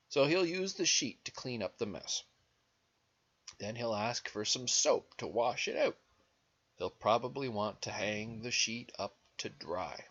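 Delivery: animated story reading with swooping pitch; lilting read-aloud; picture-book narration. A narrator's reading. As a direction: read to small children, leaning on key words. Reads picture book to children.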